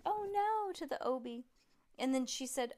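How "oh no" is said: high, loud drawn-out "oh no"; wheezing horn cry. A narrator's reading. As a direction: wail it like a horn in trouble. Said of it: "it wheezed and said".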